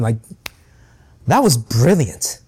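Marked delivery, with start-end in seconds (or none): 1.3-2.4 slow, dry sarcastic compliment; mock applause in words, slowly; sarcastic praise. Preacher pretending to slow clap the Pharisees, slow sarcastic praise. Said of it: "slow clapping".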